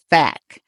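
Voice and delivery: "fac" set apart and punched; stressed syllable. Shown as a demonstration. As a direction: say "fac" alone, firmly, as fak. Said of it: "The stress is on".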